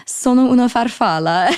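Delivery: put-on Italian accent. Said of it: "Okay, but that accent".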